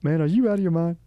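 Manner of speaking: high, loud, incredulous host voice; Steve Harvey. Acted. Host scolding contestant over perverted answer, mock-outraged impression. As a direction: lean into comic disbelief. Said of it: "It's my Steve Harvey".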